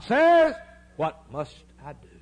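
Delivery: high cry then dropping to a hush; pleading cry. Retold or imitated. A preacher voicing the Pentecost crowd's desperate plea. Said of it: "What did the Philippian jailer say".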